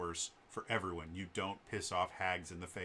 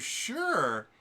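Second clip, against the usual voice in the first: hag voice; 11 semitones higher, 5 dB louder than usual. Retold or imitated. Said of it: "the hag goes".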